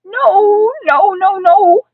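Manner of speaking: high, loud string of refusals; frantic child's protest; yelled protest. A narrator's reading. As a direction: yell each one in alarm. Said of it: "I yelled".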